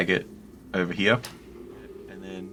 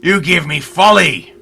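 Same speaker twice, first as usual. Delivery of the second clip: slow, high, very loud bellow; furious shouting; 9 semitones higher, 11 dB louder than usual. Acted. Adventurer shakes the mirror by its edges, shouting in great fury. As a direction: roar each word out in great fury. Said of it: "you shout at the mirror".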